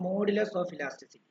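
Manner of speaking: very slow, drawn-out heading for note-taking; dictating a heading. Shown as a demonstration. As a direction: spell it out slowly for the class. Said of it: "heading എഴുതുക". (ഹെഡിങ് പതുക്കെ പറഞ്ഞുകൊടുക്കുന്നു)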